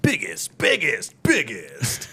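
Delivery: hyped announcer chanting biggest; monster truck ad. Retold or imitated. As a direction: boom it out like a truck rally ad. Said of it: "like monster truck commercials".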